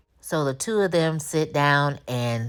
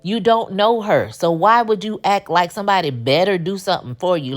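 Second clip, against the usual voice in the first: loud lecture; 4 semitones higher, 4 dB louder than usual. Real, not acted. Host lectures Maurice herself.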